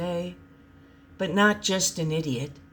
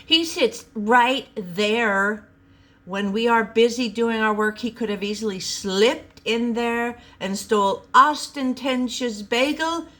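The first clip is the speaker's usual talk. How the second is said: accusing Henry; 6 semitones higher, 4 dB louder than usual. Acted.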